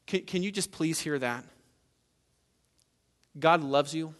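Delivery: softened, heartfelt appeal; gentle, sincere reassurance with pauses; tender earnest plea. Real, not acted. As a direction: plead quietly and let it sink in. Earnest closing plea to congregation.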